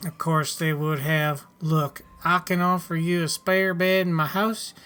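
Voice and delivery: a touch of a folksy settler character; lightly voiced farmer. Settler tells newcomer where to sell spares, lightly voiced farmer. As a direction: lightly act a helpful farmer advising a newcomer.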